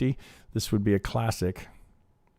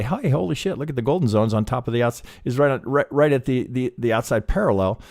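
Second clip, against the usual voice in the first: excited discovery; 4 semitones higher, 3 dB louder than usual. Retold or imitated. Imagined trader spotting golden zones.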